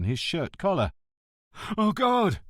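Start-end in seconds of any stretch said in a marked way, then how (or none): 1.8-2.4 sudden high, loud cry of distress; feigned panic, pitched up and loud; gasped. Acted. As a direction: fake a seizure with a gasp. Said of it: "he gasped".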